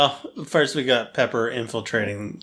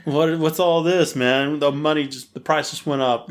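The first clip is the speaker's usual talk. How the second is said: captor voice; 4 semitones higher than usual. Retold or imitated. Captor quote, louder, higher.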